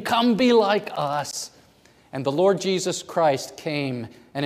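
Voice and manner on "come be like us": high, loud, slow taunting cry; mock scream. Preacher voicing the world screaming at believers, loud and high. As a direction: shout like the tempting world.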